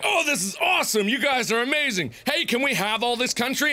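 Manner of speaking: put-on excited enthusiasm; mock delight. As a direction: play up eager amazement. Acted settlers delighted by the food.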